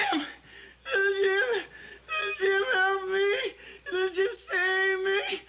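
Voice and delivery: desperate sobbing call; crying for help. Acted. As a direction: cry out, voice breaking high. Calling for help.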